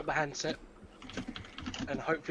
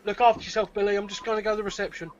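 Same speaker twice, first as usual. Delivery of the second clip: shouting through the door, louder; calling out; 4 semitones higher, 5 dB louder, faster than usual. Acted. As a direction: call out across the room. Character calls out to Billy.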